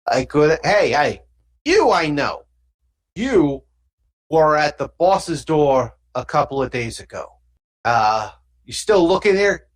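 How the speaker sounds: lightly voiced thug sizing someone up; casual thug voice, prodding; street thug. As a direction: call out like a pushy gang lookout.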